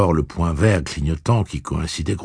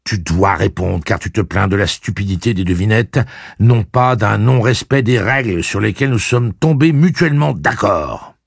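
dry confident tone; 5 semitones higher, 6 dB louder than usual. A narrator's reading. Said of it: "ton sec et plein de confiance en soi".

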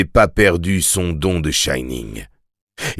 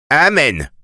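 put-on perplexed drunk; 8 semitones higher than usual. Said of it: "d'une voix d'ivrogne perplexe".

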